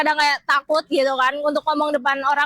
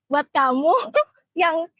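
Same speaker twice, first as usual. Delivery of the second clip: TV ad salesperson. Shown as a demonstration. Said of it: "pakai gaya sales iklan T V".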